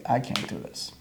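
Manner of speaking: whispered, soft and resigned; defeated whisper. Retold or imitated. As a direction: give up in a whisper. Quitting, handing over keys.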